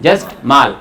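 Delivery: माल said lightly, no force; light, easy. Shown as a demonstration. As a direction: toss off माल easily, like Germans. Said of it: "बहुत easily बोलना है उसको".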